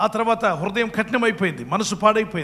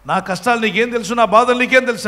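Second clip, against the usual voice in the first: aggrieved retort; 5 dB louder than usual. Retold or imitated. Crying farmer retorts to the pot.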